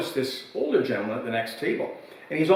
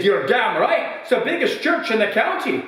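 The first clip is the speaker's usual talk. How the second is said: put-on old pub regular's voice pitched high, louder and proud; proud old man; 9 semitones higher, 3 dB louder than usual. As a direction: brag like a weathered old villager.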